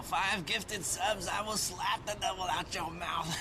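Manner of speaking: televangelist. Pretend. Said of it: "do some televangelist".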